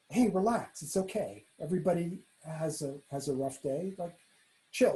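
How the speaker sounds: quietly soothing, voice dropping; reassuring. Retold or imitated. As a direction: gently talk someone down. Kind diner reassuring a nervous waiter.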